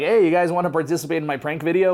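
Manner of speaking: heavy put-on Russian accent. Retelling someone asking gangsters to join a prank video: thick russian accent. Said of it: "with this thick Russian accent".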